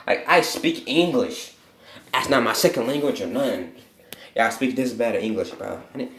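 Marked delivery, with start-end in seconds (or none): 0.0-3.8 self-mocking. Real, not acted. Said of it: "I really need to know fucking grammar".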